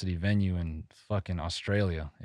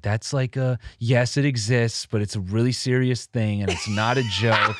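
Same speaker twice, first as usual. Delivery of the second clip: higher, earnest mock scolding; imitated upset worker; 3 semitones higher, 5 dB louder than usual. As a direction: imitate someone insisting it is serious. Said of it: "she got pretty upset".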